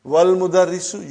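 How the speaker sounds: "wal mudarrisu" with "wal" as one joined syllable; teacher repeating for the class, "wal mudarrisu" without hamza; hamza dropped. Shown as a demonstration. Link "wal mudarrisu" with no glottal onset. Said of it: "you did not pronounce hamza".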